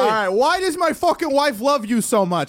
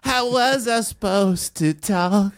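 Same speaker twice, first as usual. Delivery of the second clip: mock Britney; slower than usual. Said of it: "I don't know how to do the Brit".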